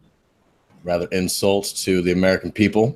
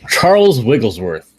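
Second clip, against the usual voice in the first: a slow, loud, grand introduction of a lightly voiced English gentleman; posh character intro; 4 semitones higher, 8 dB louder, slower than usual. Player introducing his gentleman explorer character, lightly voiced, slow and proud. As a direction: announce your name slowly and proudly, a light gentleman's voice.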